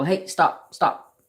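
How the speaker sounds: dad hushing the yard crew; dad halting everyone. Retold or imitated. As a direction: cut everyone off like dad hearing something. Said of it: "my dad all of a sudden will go".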